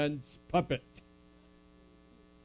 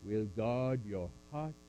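solemn measured recitation; scripture recitation. Acted. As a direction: recite it like a benediction.

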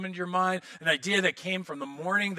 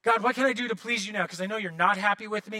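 anxious pleading; 3 semitones higher, faster than usual. Retold or imitated. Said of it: "And that's not like".

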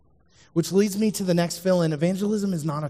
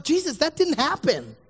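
indignant confusion; 9 semitones higher than usual. Retold or imitated. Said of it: "They're indignant. They're confused".

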